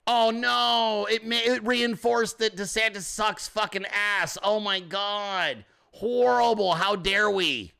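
sarcastic pearl-clutching dismay; drawn-out fake outrage; mock horror. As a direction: feign being scandalized.

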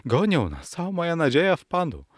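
put-on high, hurried plea of a young lady; alarmed cry. A narrator's reading. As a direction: plead urgently, pitch climbing. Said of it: "zawołała młoda dama". (zaniepokojony, wysoki okrzyk damy)

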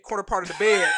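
half-shouted through a laugh; laughing loudly. Real, not acted. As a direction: blurt it out while cracking up. Laughing while retelling.

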